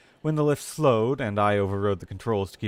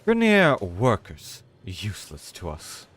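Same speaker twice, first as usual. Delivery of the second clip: loud then dropping, slow scorn; dismissive; 3 dB louder, slower than usual. Acted. Avantus dismissing the Grineer, mild scorn. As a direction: wave them off as worthless. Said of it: "said Avantus".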